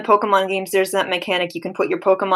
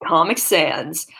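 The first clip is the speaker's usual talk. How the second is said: Sans impression; 4 semitones lower, slower than usual. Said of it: "terrible Sans Undertale impressions".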